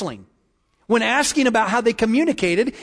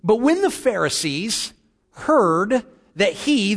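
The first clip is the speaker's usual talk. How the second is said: scripture reading; 3 semitones higher than usual. Acted. Pastor reads the Gospel passage to his congregation, measured scripture reading. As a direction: read the verses aloud with measured emphasis.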